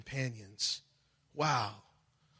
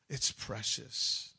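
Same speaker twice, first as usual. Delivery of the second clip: slow, lower whisper of "It's precious"; hushed whisper; 5 semitones lower, 3 dB quieter, much slower than usual. Real, not acted. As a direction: breathe it out in awe. Hushed repetition.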